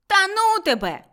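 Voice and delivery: high, loud disbelief; incredulous boyish retort; scoffing boy. A narrator's reading. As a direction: blurt it out dismissively. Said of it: "буркнув хлопчисько".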